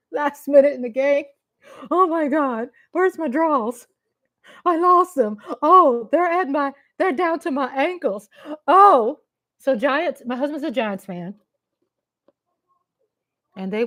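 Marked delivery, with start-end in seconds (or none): 1.9-9.2 higher hammed-up frantic fan; mock panic. Mocking losing Steelers fans with hammed-up panic. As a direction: play the panicking fan for laughs.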